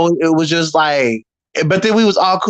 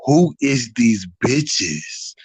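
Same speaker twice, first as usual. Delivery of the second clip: low, very slow drawn-out challenge; slow menacing Leslie; 5 semitones lower, 3 dB quieter, much slower than usual. Retold or imitated. Imitating Leslie sizing up the room, slow and low. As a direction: drag every word like a big girl sizing you up. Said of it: "walked up like".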